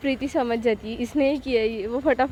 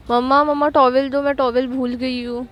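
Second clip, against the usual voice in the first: loud call from the bathroom; 6 dB louder than usual. Acted. Preeti calling her mother for a towel, loud call. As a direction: shout for mom through the door.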